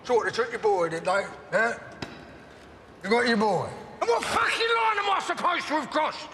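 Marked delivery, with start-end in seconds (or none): 4.0-6.3 much higher, raging shout; furious shout. Acted. Alfie shouting in rage at Tommy about crossing a line. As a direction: explode with the question.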